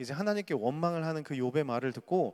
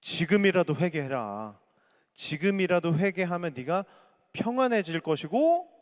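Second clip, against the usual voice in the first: loud, solemn pronouncement slowing down; a friend lecturing Job to repent; preachy counsel; 2 semitones higher, 4 dB louder than usual. Acted. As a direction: intone it like a stern sage. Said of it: "그 다음 건넨 말이 바로 이런 말이었어요".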